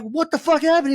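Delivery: very high, loud yell of confusion; bewildered holler, re-enacted; retold yell. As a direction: shout it back up from the pit. Acted shouting back up.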